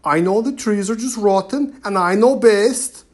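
booming. A narrator's reading. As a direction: boom it out to silence them. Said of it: "boomed the chief".

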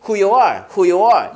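"who you are" as "who-yuh-ar"; "you" shortened to "yuh" before "are"; reduced "you". Shown as a demonstration. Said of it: "You가 아니라 you".

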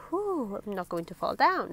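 softly relieved thought; relieved sigh. Acted. Mister Brave thinking he is safe, relieved sigh. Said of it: "with a sigh of relief".

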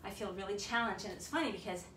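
breathless and winded; talking between heavy breaths. Real, not acted. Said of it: "I'm out of breath".

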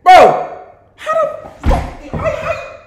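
high-pitched squeal through laughter, stretched slow; laughing disbelief. Real, not acted. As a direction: crack up so hard the words squeak out. Cracking up at "you don't own a cat.

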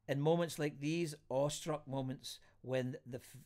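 measured, deliberate reading of lyrical prose; literary reading. A narrator's reading. Host reads a friend's words on reassurance, literary reading. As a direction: read it out phrase by phrase, with pauses. Reads a written reflection aloud.

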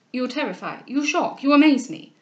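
mounting dismay; alarmed. Acted. Alarmed lover in acted quarrel.

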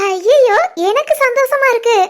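delighted laugh. Acted. Sister overjoyed at news.

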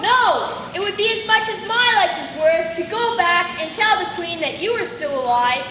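loud, firm, troubled refusal. Acted. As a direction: push back against her begging. Huntsman refuses the girl.

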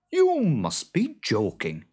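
taken-aback farmer; incredulous farmer. A narrator's reading. Farmer disbelieves the boggart.

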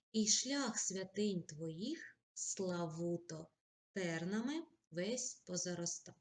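slow, heartfelt poetry reading; poem recitation. Acted. Reads poem example.

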